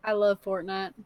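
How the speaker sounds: put-on slight hick country accent; just a hint of southern drawl; light southern drawl. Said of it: "a little bit of southern drawl, a little bit of hick".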